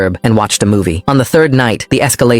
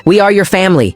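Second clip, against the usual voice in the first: mother shouting; 8 semitones higher than usual. A narrator's reading. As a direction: yell it so the hallway hears. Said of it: "she shouted".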